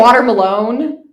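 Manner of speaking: "Water Malone" for watermelon, last part like "alone"; imitated viral mispronunciation. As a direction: rhyme the end of "Water Malone" with phone. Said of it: "pronouncing things wrong".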